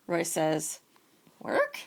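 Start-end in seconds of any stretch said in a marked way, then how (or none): 1.4-1.8 high startled bear; a short appalled squeak; dismayed squeak. Acted. Bears hear they must work, high dismay.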